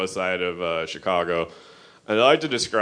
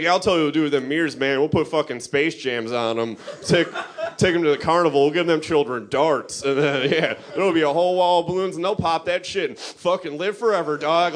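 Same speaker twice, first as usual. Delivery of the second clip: fast, high hustler pitch; scheming cokehead; 5 semitones higher than usual. Retold or imitated. Cokehead dude pitching Space Jam mirrors, fast. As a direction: sell it like a wired schemer. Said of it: "He's like".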